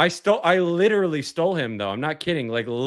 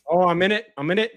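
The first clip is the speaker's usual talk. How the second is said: mock British accent; 5 semitones higher, faster than usual. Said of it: "British guy".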